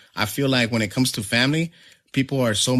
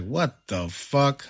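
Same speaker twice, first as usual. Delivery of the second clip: slow, drawn-out mock disbelief; retold disbelief; 3 semitones higher, much slower than usual. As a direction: draw the words out, appalled. Retold stunned reaction.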